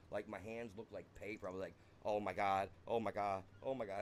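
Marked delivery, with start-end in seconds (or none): 2.0-4.0 retold panic, louder at the start; mildly panicked repeated exclamations; freaking out. Teller relives seeing his hands look like paper, mildly freaking out. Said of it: "I started freaking out".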